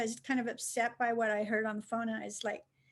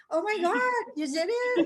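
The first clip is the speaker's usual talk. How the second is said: mock panic; 8 semitones higher, 4 dB louder than usual. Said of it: "It's like".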